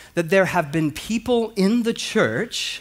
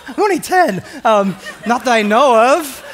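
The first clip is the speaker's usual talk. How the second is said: much higher and louder, mock-outraged child; indignant surprise; 8 semitones higher, 8 dB louder than usual. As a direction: squeak it out like a baffled kid. Boy asked about sin.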